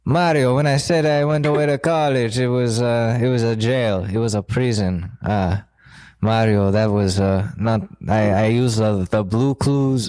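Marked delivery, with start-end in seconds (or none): 0.0-5.1 lightly voiced grim drug boss; a hint of a serious Walter White; Breaking Bad voice. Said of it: "now it's Breaking Bad".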